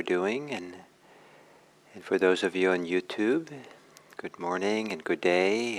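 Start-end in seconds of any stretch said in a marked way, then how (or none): 4.2-5.8 much higher, lilting hello; bright lifted greeting. Real, not acted. Greeting the YouTube viewers, high and cheerful. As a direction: sing out a cheery good morning.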